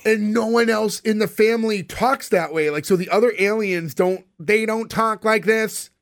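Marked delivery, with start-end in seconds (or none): 4.4-5.9 slow, slightly raised robotic alien; lightly mock a robotic alien, drawn out. Shown as a demonstration. Host mocking the baby alien's voice, lightly robotic. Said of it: "Why is it robotic?".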